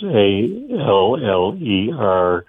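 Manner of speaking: each letter read out slowly and clearly; careful letter-by-letter dictation; slow spelling. Shown as a demonstration. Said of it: "do this title again so I can kind of phonetically write this".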